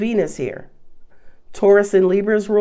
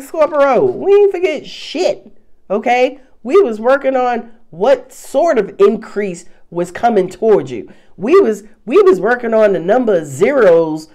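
the universe talking; 4 dB louder than usual. Retold or imitated. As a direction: reassure Scorpio like the universe, with sass. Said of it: "Universe is like".

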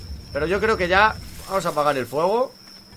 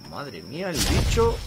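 slow, drawn-out amazement at usual volume; awed reaction; slower than usual. Real, not acted. Gamer seeing the creature, awed and restrained. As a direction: marvel slowly, holding back.

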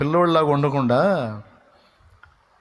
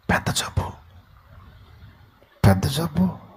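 softer whispered gossip; 4 dB quieter than usual. Retold or imitated. A woman whispers the sick man's illness, softer. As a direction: hush it like a secret diagnosis. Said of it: "అని ఒక ఆమె అంటే".

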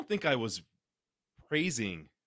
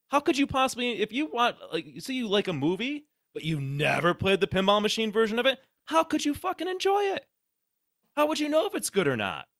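sarcastic rant climbing much higher into a squeal; mock outrage; 10 semitones higher, 5 dB louder than usual. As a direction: ham up the indignation to mock the commenter.

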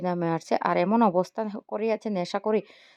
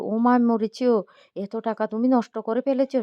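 shocked cry; 3 semitones higher, 4 dB louder than usual. Acted. Moyna shocked at lost money.

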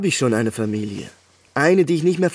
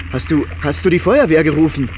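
loud, demanding the truth; frightened demand to the neighbour; frantic disbelief; 3 semitones higher, 5 dB louder than usual. Acted. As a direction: push him, scared and angry. Panic on phone.

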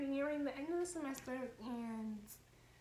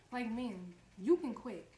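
louder, fed-up burst on you can quit; exasperated outburst; 5 dB louder, slower than usual. Retold or imitated. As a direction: throw it at them like an exasperated dare. Ranting at administrators.

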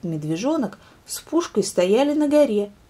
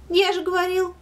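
hare boasting; 12 semitones higher than usual. Acted. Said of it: "сказал заяц".

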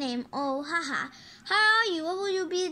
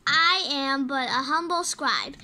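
grand scribe voice; 4 semitones lower, slower than usual. Pretend. Kid playing a grand scribe.

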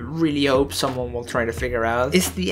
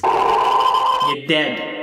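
spooky whisper; 2 semitones lower than usual. Acted. Spooky game explanation.

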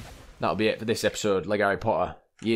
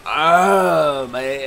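high surprised oh; 6 semitones higher, 9 dB louder than usual. Real, not acted. Exclaiming at game.

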